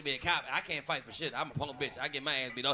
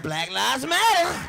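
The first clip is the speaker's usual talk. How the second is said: slow, louder, stretched words; slow drawn-out reply; 4 semitones higher, 5 dB louder, much slower than usual. Retold or imitated. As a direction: drag the words out slowly.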